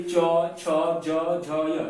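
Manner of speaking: च, छ, ज, झ sounded in an even series; palatal sounds. Shown as a demonstration. Teacher demonstrating for students, palatal letters sounded out. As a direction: recite च, छ, ज, झ with tongue at the palate. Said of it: "तालु से पढ़िए".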